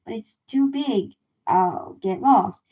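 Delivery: timid dinosaur. Acted. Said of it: "in his timid dinosaur voice".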